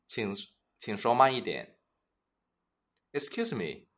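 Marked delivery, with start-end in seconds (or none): 3.1-3.9 soft polite excuse me. Shown as a demonstration. Model polite request.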